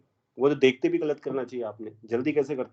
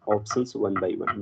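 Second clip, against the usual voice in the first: slow dictation; 4 semitones lower, much slower than usual. Shown as a demonstration. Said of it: "बात के लिए लिख रहा हूँ आपके".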